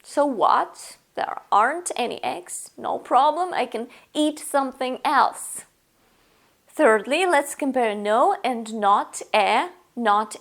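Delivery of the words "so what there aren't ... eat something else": light shrug in So what, There aren't any eggs; easygoing, no big deal; casual, unbothered. Shown as a demonstration. Shrugging off the empty fridge casually. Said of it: "But you can say".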